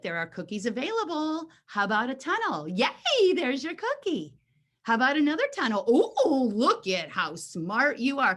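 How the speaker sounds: sing-song praise with big pitch swoops; teasing the dog. Acted. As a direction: gush at a dog to lure it along. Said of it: "I'll tease him a little bit".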